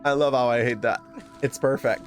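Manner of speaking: normal talking voice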